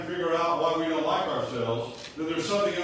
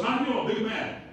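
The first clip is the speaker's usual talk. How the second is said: imitated South African accent, pitched higher; higher-pitched mock South African accent; 5 semitones higher than usual. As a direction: play the South African pastor, voice lifted. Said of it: "brings up the South African accent".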